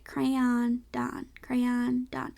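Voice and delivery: crayon as cray-AHN, practised softly against don; match the end of crayon to don, carefully; crayon rhyming with Don. Shown as a demonstration. Practising the one that is hard to say, crayon rhymed with Don. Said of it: "that last one is hard to say".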